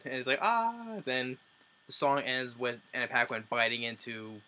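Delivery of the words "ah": high, drawn-out "ah" at normal volume; mock scream, held and pitched up; imitated scream. Reviewer acting out the character screaming at the transformation, mock scream. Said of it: "then he's screaming".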